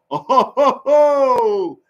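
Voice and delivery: high, hooting laugh; amused laugh. Real, not acted. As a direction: hoot with delight at the bold call. Laughs at Minnesota going for it.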